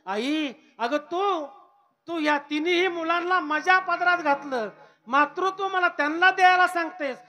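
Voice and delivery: put-on high, loud tearful child's cry; sobbing plea. Nivrutti unable to hold back tears, crying to his mother. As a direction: weep while begging her to stay. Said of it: "निवृत्तीनाथांना रडू आवरे ना".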